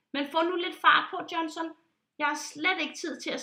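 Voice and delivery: impatient urging. Acted. Pilot rushing Johnson, impatiently. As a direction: hurry him along.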